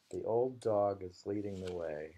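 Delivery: measured haiku reading; poem recital. Acted.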